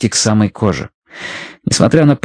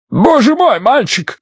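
horrified yell; 14 semitones higher, slower than usual. A narrator's reading. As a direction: scream it in horror. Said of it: "заорал Бидуэлл".

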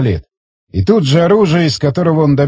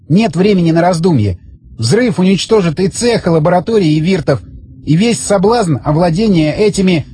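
higher-pitched character voice; raised, insistent man's voice; tense bomb holder; 4 semitones higher than usual. Acted. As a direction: explain it with strained urgency, pitched up. Voices Zagorsky justifying the blast.

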